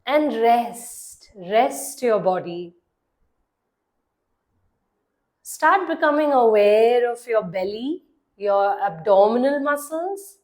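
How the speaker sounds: measured meditation voice with long pauses; guided meditation. Acted. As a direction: guide the listener into relaxing, leaving long silences between phrases. (calm guided-meditation delivery)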